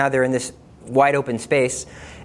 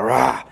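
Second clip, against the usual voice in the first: retold roar; 4 semitones lower than usual. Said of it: "growl or roar".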